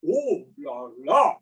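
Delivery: lightly French "Oh, la, la", dropping then leaping up; amused Frenchman's "Oh, la, la". Retold or imitated. Old Frenchman watching the drenched cyclist, lightly French. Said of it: "looks at me and goes".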